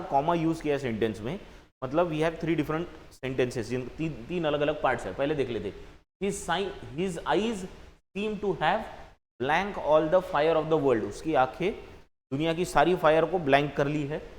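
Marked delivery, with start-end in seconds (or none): 6.2-11.1 very slow, measured reading of the sentence; teacher slowly reading an exercise sentence to students; slow read-aloud. Shown as a demonstration. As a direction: read each phrase out as if dictating. Rereads the sentence.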